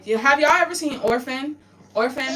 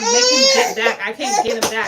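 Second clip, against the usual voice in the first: tearful half-laugh; laugh-crying about her loss; laughing through tears; 3 semitones higher, 6 dB louder than usual. Real, not acted. Grief over dead son.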